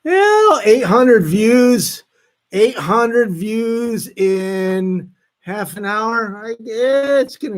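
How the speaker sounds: a high burst on "Well", then slow, drawn-out amazed words; excited amazement. Real, not acted. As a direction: savour the number, pleased and amazed. Checking video views, amazed.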